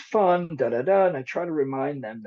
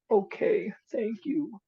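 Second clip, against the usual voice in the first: put-on small child voice; 6 semitones higher, slower than usual. Voicing Susie accepting lollipop.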